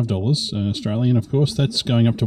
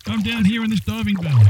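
echoey voice from a diving bell; inside a diving bell; 9 semitones higher than usual. Pretend. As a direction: sound like you're down in a metal bell.

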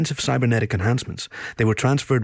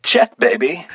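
sultry breathy purr, pitched up; sultry narrator; 11 semitones higher, 6 dB louder, slower than usual. Acted. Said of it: "in a sultry whisper".

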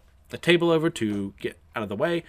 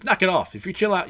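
mock scolding; 7 semitones higher, 4 dB louder than usual. Acted rebuke after a fight.

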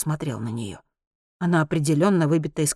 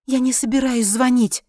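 quick reply; 8 semitones higher, 3 dB louder than usual. A narrator's reading. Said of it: "быстро ответила женщина".

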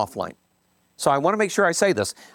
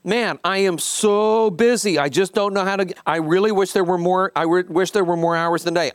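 higher, slowed-down whiny complaint; overwhelmed busy guy; 4 semitones higher than usual. Retold or imitated. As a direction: ham up the swamped client moaning about no time. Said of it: "The guy goes".

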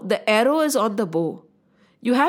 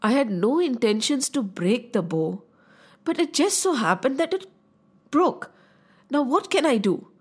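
humble apology. Acted. Young prince pacifies the angry sage over the bow, humble and calm. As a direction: reason with him gently and unhurriedly.

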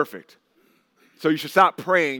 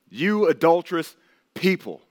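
sharp rebuke; 3 semitones higher than usual. Shown as a demonstration. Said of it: "just listen to the tone with this".

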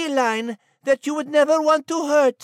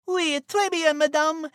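put-on French accent. French cat character speaks French.

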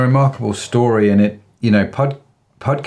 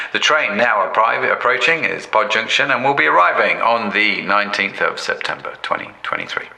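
train station announcement. Pretend. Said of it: "train station".

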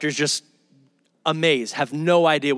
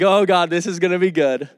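joyful praise. Retold or imitated. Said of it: "He's smiling. He's laughing".

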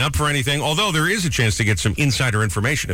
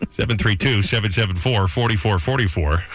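punchy announcer number read; 2 semitones lower than usual. Acted. Radio host giving listeners the call-in number, announcer style. Reads station phone number.

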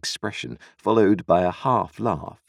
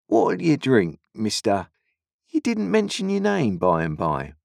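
sly stranger; 6 semitones higher than usual. A narrator's reading. Stranger voiced in story.

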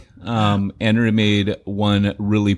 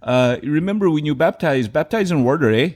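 hammed-up Canadian accent, pitched up; mock Canadian accent; 5 semitones higher than usual. Pastor jokingly talking to the congregation in a hammed-up Canadian accent. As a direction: play a jokey Canadian pastor with a raised voice. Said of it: "a Talk Like a Canadian Day".

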